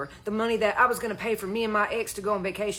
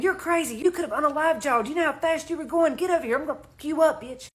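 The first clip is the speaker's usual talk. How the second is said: retold scream; 5 semitones higher than usual. Angry man threatens the driver in the parking lot, retold mild scream. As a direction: imitate an enraged man screaming, held back. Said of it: "He was screaming".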